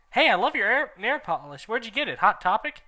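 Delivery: high excited chatter; Ebony gushing to the teacher. Acted. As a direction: gush over the nail polish. Gushing compliment.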